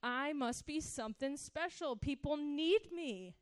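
a lightly voiced, full-of-himself younger self; past self's proud thoughts. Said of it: "I thought".

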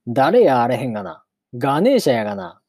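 monster answering in Kansai dialect; lightly acted Kansai-dialect character line. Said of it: "関西弁も交えた". (関西弁の化け物のセリフ)

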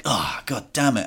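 slow, muted exasperated groan of words; retold exasperation, drawn out under the breath. Swimmer retells finding the changing room taken, exasperated. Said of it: "And I was like".

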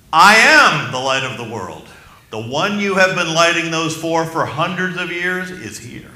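booming, ringing announcement of I am the light of the world; thundering declaration to the crowd; loud proclamation. Retold or imitated. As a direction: proclaim it to the whole temple court. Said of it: "announced in a loud voice".

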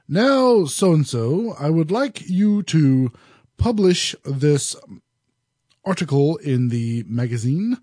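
put-on every syllable carefully pronounced, like an old news program, in a mild mid-Atlantic accent; old-fashioned well-pronounced accent. Reviewer imitating the Seinfeld boss's mid-Atlantic accent, lightly done. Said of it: "very well pronounced accent, and he talked like this".

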